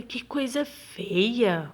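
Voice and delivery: "Que coisa feia!" bem devagar, mais forte; espanto arrastado. Shown as a demonstration. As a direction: exclamar com espanto, alongando as palavras. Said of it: "medo, espanto". (espanto lento e enfático)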